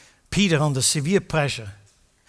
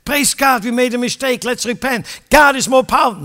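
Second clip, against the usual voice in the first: mock joyful repentance; 8 semitones higher, 9 dB louder than usual. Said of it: "They should have said".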